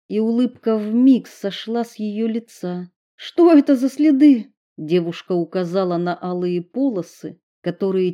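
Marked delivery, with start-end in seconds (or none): 3.2-4.5 high, loud startled asking; sudden fear in the voice; alarmed cry at the sight; alarmed question. A narrator's reading. Alarmed question about blood trails.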